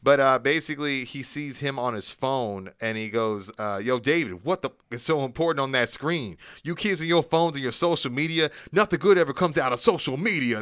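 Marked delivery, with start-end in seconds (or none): 3.8-10.6 mock-indignant lecture, building higher and louder; acted-out classroom telling-off; teacher's scolding rant. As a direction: tell off a student like an exasperated teacher. Acts out teacher scolding distracted student.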